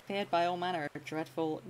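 a light put-on pirate accent, close to his own voice. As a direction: lightly play a hammed-up pirate captain with a pirate accent. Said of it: "I can't do that accent".

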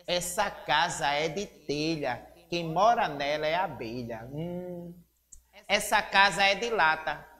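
measured read-aloud of a rhyming poem; teacher reading a children's poem aloud. Acted. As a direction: read the verses clearly, pausing after each couplet. Leitura do poema A Casa e o Seu Dono.

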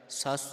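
ਸਸ said lightly, without weighting it; light pronunciation. Shown as a demonstration. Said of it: "ਪੋਲਾ ਹੈ, ਭਾਰਾ ਨਹੀਂ ਕਰ ਦੇਣਾ".

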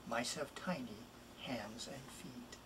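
whispered tender line; hushed whisper. Acted. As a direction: whisper it softly as a secret.

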